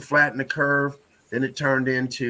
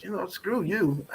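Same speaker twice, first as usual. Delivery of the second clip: slow mock dismissal; 6 semitones higher, 6 dB quieter than usual. Mock dismissal of travel rules.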